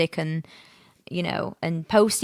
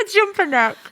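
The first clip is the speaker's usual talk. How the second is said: laughing through the words, pitched higher; 13 semitones higher than usual. Real, not acted. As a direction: crack up at the silly word. Laughing at her own made-up word.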